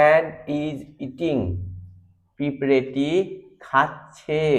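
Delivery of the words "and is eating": very slow, word by word; slow dictation. Shown as a demonstration. Teacher reading the example slowly. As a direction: spell it out slowly for the class. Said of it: "the".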